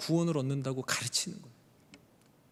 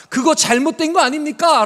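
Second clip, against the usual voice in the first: loud challenge; 10 semitones higher, 12 dB louder than usual. Acted. Luther challenging the church.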